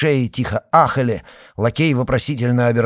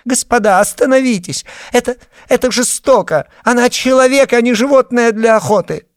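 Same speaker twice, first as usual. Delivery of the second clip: much higher, much louder desperate cry; shrieking plea; 8 dB louder than usual. A narrator's reading. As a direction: scream at them to stop. Tatiana screaming at the men.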